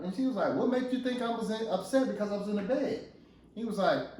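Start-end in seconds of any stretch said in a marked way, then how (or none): 0.5-3.1 defensive wife. Acted. Wife retorting in acted quarrel.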